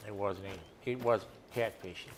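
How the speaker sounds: talking through a yawn; words stretched by a yawn. Real, not acted.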